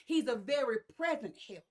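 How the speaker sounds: a mild push on present; stress on present. Shown as a demonstration. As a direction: present leaned on a little. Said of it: "I wanna put emphasis on the word present".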